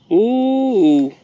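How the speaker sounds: long drawn-out cooing ooh; admiring ooh. Real, not acted. Fussing over a little one, admiring ooh. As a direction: draw out an impressed ooh.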